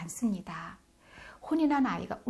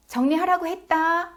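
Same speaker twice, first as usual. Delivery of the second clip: high, loud mock-mother scolding; child playing stern mom; 9 semitones higher, 6 dB louder than usual. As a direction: draw out the order like a nagging mom. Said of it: "엄마 목소리 똑같이 나와요".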